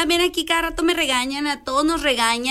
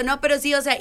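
ordinary delivery

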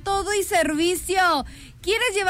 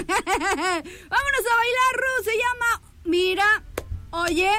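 slow, much higher, laughing words; 5 semitones higher, much slower than usual. Real, not acted. Host calls everyone to dance while still laughing. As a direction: laugh your way into the dance call.

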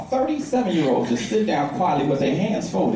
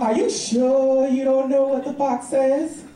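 slow, higher niece voice, lightly done; niece's doubting question; 5 semitones higher, slower than usual. Retold or imitated. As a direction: lightly imitate a child pressing uncle. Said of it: "And she goes".

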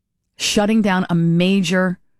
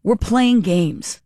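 slow, drawn-out playing games; dry sarcasm; much slower than usual. Real, not acted. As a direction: drag it out with a dry edge. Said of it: "Sounds like".

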